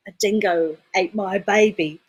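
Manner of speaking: line delivered in an Australian accent. Shown as a demonstration. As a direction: say it in your best Aussie accent. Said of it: "doing my best Australian accent".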